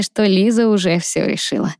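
usual speaking voice

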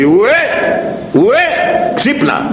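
high, ringing rebuke calling a proud man to wake; stern wake-up call. Acted. The Lord rebuking a proud man: high ringing call. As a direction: cry out like a prophet shaking someone awake. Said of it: "θα γίνει σαν τον Κύριο και θα του πει".

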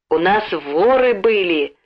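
«воры» with a long, rolling R; rolled R. A narrator's reading. Boy announces the burglary at the door, rolling the R in «воры». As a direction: roll the R in «воры». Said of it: "Раскатисто на букве «Р»".

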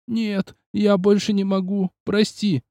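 put-on a worn-out kid with nothing left; exhausted young boy.

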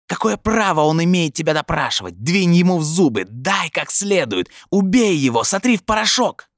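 very high, frenzied screeching; clamouring inner voice. A narrator's reading. Voice in his head incites Brin to violence, screeching. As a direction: shriek the orders, building to a peak. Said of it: "перекрывая этот галдёж в голове".

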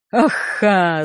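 short acted guffaw. A narrator's reading. Reaper amused by the trainee's refusal, guffawing. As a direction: burst into a brief laugh. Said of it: "загоготал он".

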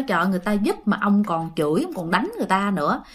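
a quick, understated reproach; nagging wife. Acted. Wife chides husband for cursing his helpers, mild nagging. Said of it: "mẹ cũng ngằn nhằn".

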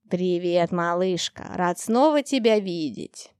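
low, slow, booming dragon voice; booming bass. Acted. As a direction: rumble it out like a huge friendly dragon. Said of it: "пробасил Раш".

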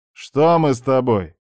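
pointed question with falling end; challenging question. Acted. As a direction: throw her words back at her. Narrator challenges her hint.

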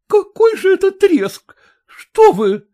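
high, loud, incredulous woman's voice; indignant actress. A narrator's reading. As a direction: she scoffs at his consolation. (возмущённо, высоким голосом)

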